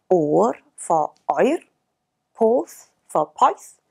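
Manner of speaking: oer and poeth said slowly in the local dialect form; slow, drawn-out local vowels; local pronunciation. Shown as a demonstration. Teacher demonstrates dialect vowels, slowly. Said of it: "you may hear some local pronunciations".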